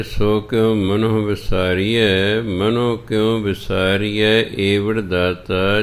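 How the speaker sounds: measured, drawn-out recital of Gurbani; slow scripture recitation. Acted. Teacher recites the shabad for the sangat, slow and measured. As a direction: recite each line slowly and devoutly.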